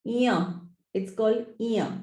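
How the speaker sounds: "iya" set apart, pronounced with care; correct pronunciation. Shown as a demonstration. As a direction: demonstrate the letter name "iya" carefully. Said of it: "which we pronounce wrongly".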